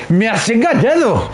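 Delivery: high, slow melodramatic wail; hammy soap betrayal cry; gasping soap opera drama. Acted. First melodramatic take.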